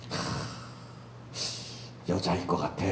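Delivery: low, dreamy muttering of a man picturing a woman; low, slow, lost in a daydream about her; fantasizing man. Acted. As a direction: savour each imagined detail slowly and low. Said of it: "지금 다시 상상하고 있는 거예요".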